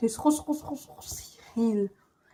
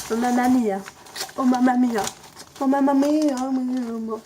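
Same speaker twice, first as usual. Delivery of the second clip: louder mamma mia; 4 dB louder than usual. Real, not acted. Exclaims over tasty ham.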